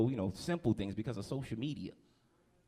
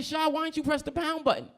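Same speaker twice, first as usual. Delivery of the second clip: high, loud fed-up demand; exasperated question; 14 semitones higher, 5 dB louder than usual. Retold or imitated. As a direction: grill the kid, exasperated. Confronting his cousin.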